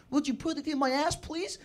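polite request in mock Norwegian accent; comic Norwegian-accented English; attempted Norwegian accent. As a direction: play her lightly Norwegian. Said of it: "there's the accent again".

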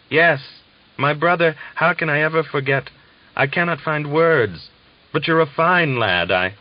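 German prisoner thanking the Russian, overjoyed; overjoyed gratitude. Acted. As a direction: pour out thanks, high and moved.

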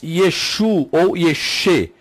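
"Yeshu ou Yexê" with both names stressed on their last syllable; Western pronunciations. Shown as a demonstration. Teacher giving two Western forms, "Yeshu ou Yexê" end-stressed. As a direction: contrast final u and e in "Yeshu ou Yexê". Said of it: "pronúncias ocidentais".

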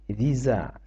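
"віза" with a z between the vowels; s voiced as z. Shown as a demonstration. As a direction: say French visa as "віза", with z. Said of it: "С між голосними читається як з".

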